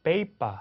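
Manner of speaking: paper with airy first p, plain second; teacher models paper. Shown as a demonstration. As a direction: contrast the two p's in paper. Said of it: "빼빠".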